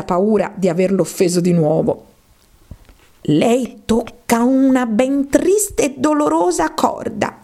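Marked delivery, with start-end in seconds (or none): 3.2-7.4 slow, higher, sighing mouse fading to breath. A narrator's reading. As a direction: sigh the words out sadly. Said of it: "disse sospirando il topo". (con un sospiro triste)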